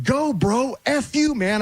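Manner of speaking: high, hammed-up cursing rant; cursing guard. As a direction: imitate the guard swearing at him. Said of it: "starts cursing".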